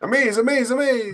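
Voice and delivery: high-pitched, loud alien catchphrase; Rocky voice. Retold or imitated. Friend quoting Rocky the alien in a high, loud voice.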